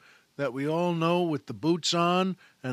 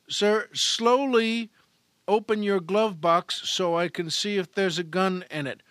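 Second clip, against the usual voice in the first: cautious captain; 4 semitones higher, 3 dB louder than usual. Acted. Captain cautiously instructs the driver.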